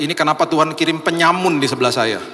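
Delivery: mock shock. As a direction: act out the alarmed mother.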